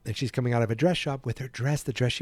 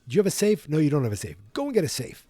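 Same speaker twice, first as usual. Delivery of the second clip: high, louder impatient scold; scolding old man; 5 semitones higher, 3 dB louder, faster than usual. Retold or imitated. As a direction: berate like a grumpy old man.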